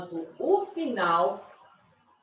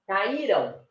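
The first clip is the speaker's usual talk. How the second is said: "Caíram" with stress on the Í; stressed middle syllable. Shown as a demonstration. Teacher repeating the past form, penultimate stress. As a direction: lean on the Í, let the ending drop. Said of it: "a sílaba mais forte aí é caíram".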